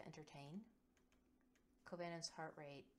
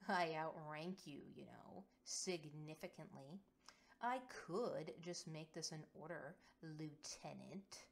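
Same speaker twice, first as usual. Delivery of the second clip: rumbling; 3 dB louder than usual. Acted. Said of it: "Velius rumbles".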